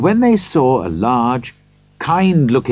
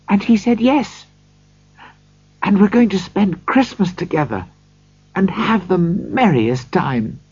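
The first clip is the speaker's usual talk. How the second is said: higher-pitched, eager loving sister; loving, delighted; 7 semitones higher than usual. A narrator's reading. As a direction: speak up high with affection and delight. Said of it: "she said lovingly to him".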